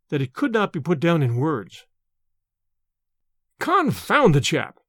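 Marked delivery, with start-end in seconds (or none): 3.6-4.8 exclamation. Acted. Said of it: "cried Smith".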